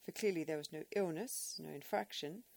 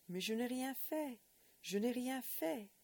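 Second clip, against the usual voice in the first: high, pleading French denial; blurted protest; 7 semitones higher, 3 dB louder than usual. Acted. Accused boy pleading innocence to the shaking old man. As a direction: blurt it out, close to tears. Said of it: "breached his own code of honour and blurted".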